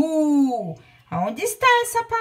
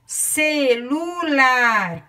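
slow dictation; much slower than usual. Shown as a demonstration. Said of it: "Aqui nós vamos escrever".

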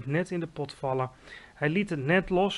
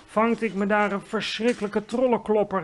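higher, aggrieved exclamation; indignant cry; 5 semitones higher, 4 dB louder than usual. A narrator's reading. Giant telling Sophie what he caught, indignant cry. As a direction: complain with mild outrage. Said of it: "riep hij".

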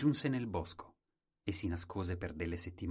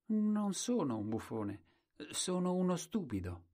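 simple fool; 10 semitones higher than usual. Acted. Colombin answers the crowd.

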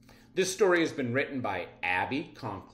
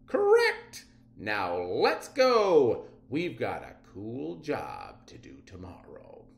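brisk captain. Acted. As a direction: snap the answer, then move out. Captain confirms and rushes off.

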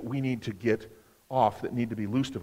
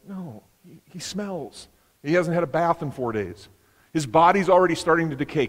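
higher, pleading family protest, growing louder; a fretful relative objecting that he stinks; worried family; 5 semitones higher, 5 dB louder than usual. Retold or imitated. Family members protesting to Jesus, higher and pleading.

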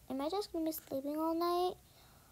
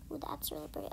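whisper; 6 dB quieter, much faster than usual. Real, not acted.

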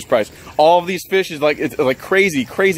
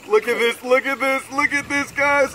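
excited; 9 semitones higher, 4 dB quieter than usual. Real, not acted. Excited at the fish.

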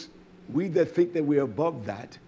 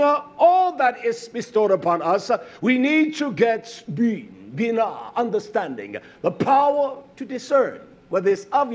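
preaching; 6 semitones higher, 5 dB louder than usual. Real, not acted. Preaches with urgency to congregation.

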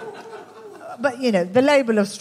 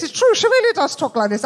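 posh high royal voice, much higher; Queen impression; 8 semitones higher than usual. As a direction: put on a plummy upper-class Queen voice. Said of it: "the Queen talks like this".

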